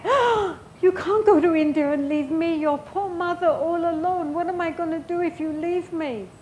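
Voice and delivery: high, loud, wailing guilt-trip plea; mock clingy mother. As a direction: ham up a needy mother begging her child to stay. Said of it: "She didn't talk like that".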